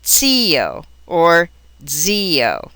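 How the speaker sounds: "zio" first as TSEE-o, then as DZEE-o; TS versus DZ. Shown as a demonstration. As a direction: slowly contrast "zio" with TS and "zio" with DZ. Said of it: "given a T S or D Z sound".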